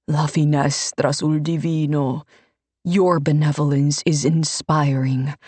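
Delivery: a pious man playing to the crowd, lightly voiced; Ivini the priest. Ivini plays the martyr.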